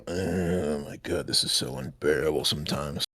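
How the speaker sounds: low, soft, slow sigh of fake suffering; mock weary celebrity. Randy groans to the photographers in hammed-up weariness. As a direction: play the put-upon star, drawn out. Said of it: "As he'd say".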